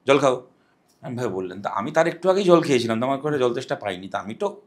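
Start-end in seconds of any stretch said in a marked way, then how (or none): 0.1-0.5 "জল খাও" as a firm order, a bit louder; stern old woman's order. Retold or imitated. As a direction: order him to drink like a bossy elder. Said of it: "একদম এই টোনে". (কড়া আদেশের সুরে "জল খাও")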